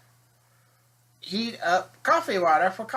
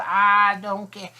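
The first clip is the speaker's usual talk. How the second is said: louder, slow and firm; bailiff's retort; 5 dB louder, slower than usual. Retold or imitated. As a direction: lay down the law to her. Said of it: "He goes".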